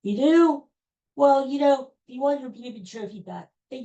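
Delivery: sharp high disbelieving retort; incredulous. Real, not acted. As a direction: scoff up high, can't believe it.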